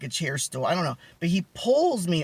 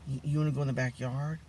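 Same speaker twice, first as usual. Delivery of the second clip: softened, lowered voice imitating a whispered proposition; retold whisper; 3 semitones lower, 7 dB quieter than usual. Guy at the table invites the storyteller outside, imitated hushed voice. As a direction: imitate a private murmur into someone's ear. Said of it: "he whispered in my ear".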